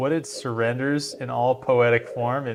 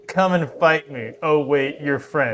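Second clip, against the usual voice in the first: mock challenge to the French; 2 semitones higher, 4 dB louder than usual. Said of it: "be like".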